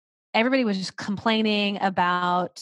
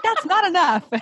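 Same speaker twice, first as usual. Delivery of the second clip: mock tantrum; 11 semitones higher, 10 dB louder than usual. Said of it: "She was like".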